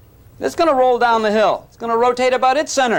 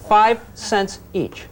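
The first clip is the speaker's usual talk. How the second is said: Five cents each drawn out slowly; slow emphatic repeat; slow deadpan; much slower than usual. Shown as a demonstration. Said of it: "repeats price slowly".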